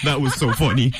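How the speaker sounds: cracking up at a comeback; laughing. Real, not acted. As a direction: say it through laughter.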